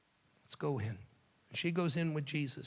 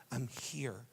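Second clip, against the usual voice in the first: soft reassurance; 7 dB quieter than usual. Acted. Jesus comforting a believer, softly. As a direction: hush them gently.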